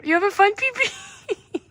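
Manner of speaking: high pet-talk voice; sing-song coo at the dog. Acted. Talking to her dog.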